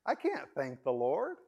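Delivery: high, strained voice of a grieving believer; despairing believer. Retold or imitated. Preacher voicing a grieving listener, high and anguished. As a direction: cry out that you can't give thanks. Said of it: "You might say".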